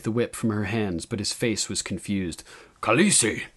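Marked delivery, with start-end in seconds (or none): 2.8-3.4 hesitant warrior in a character voice. A narrator's reading. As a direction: say it uncertainly, testing the word. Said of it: "he said hesitantly".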